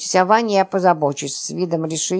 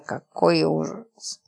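slow, soft horrified gasp of words; 3 semitones lower, 5 dB quieter, much slower than usual. Acted. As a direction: breathe it out in slow dismay. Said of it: "воскликнула Липочка". (медленно, тихо, в ужасе)

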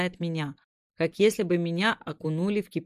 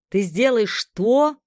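loud, slow, higher yell of disbelief; incredulous yell; 5 semitones higher, 7 dB louder, slower than usual. A narrator's reading. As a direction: shout it in disbelief. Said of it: "заорал Макс".

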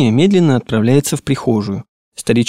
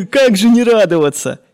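high laughing relief through drying tears; relieved laugh; 10 semitones higher than usual. Acted. Boy laughing with relief at his forgiving master. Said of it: "Лицо его просияло".

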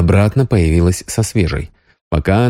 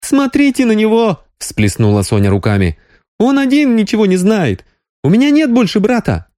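much higher, exasperated Sonya; exasperated exclamation. A narrator's reading. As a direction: throw up your hands in dismay. Sonya exclaims, throws up hands.

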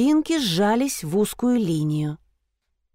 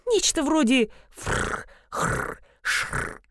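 soft rasping purr sounds fr, khr, shr; mimicking an animal's rasping purr; purring creature noise; 7 semitones higher, 4 dB quieter, slower than usual. A narrator's reading. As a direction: imitate a strange gentle purr. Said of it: "издавало странный, но совсем не злобный звук".

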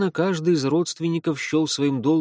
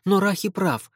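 put-on agitated girl; 8 semitones higher than usual. Fi voiced, agitated.

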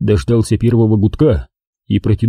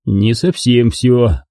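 ordinary delivery, nothing marked

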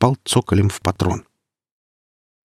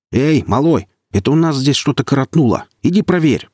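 loud, high call through a door; raised voice calling through the cell door; 6 semitones higher, 4 dB louder than usual. Acted. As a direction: shout for the guard to come check. Calls guard through the door.

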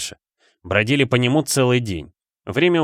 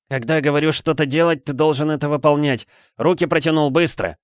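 growling order; 4 semitones higher than usual. Acted. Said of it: "зарычал он".

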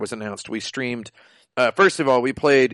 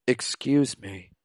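softer, slow, deadpan Excuse me; mild flat Ryo voice; 6 dB quieter, slower than usual. Retold or imitated. Ryo speaking to a schoolgirl, flat and soft. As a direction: mumble it like a stiff game hero. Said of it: "Ryo goes".

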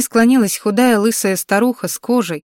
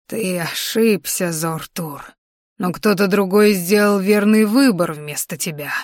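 put-on old crone voice. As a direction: speak as an ancient witch passing judgment. Old healer rebukes dragon. (медленный тихий голос старухи)

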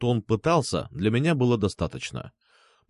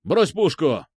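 louder, higher barked order; thundering command; 4 semitones higher, 3 dB louder, slower than usual. Acted. Officer orders the blogger to drop the gun, booming. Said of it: "прогремела команда".

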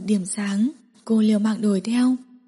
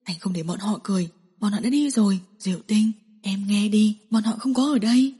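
soothing. Acted. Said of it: "dịu dần".

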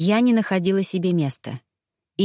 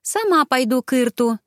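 exaggerated heavy sigh; 5 semitones higher than usual. A narrator's reading. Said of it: "нарочито тяжело вздохнула я".

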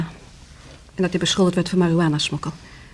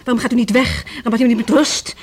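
louder, pushing back in frustration; exasperated plea; 4 semitones higher, 4 dB louder than usual. Acted. Widow tells the detective to go, exasperated and louder. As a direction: wants him gone, voice rising.

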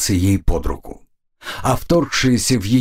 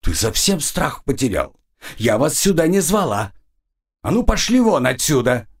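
angry command; 4 semitones higher than usual. Acted. Goddess orders them out.

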